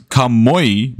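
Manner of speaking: Kamoi ending in an "oy" sound; kamoi pronunciation. Shown as a demonstration. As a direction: say Kamoi slowly, rhyming the end with "boy". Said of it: "pronunciation does matter".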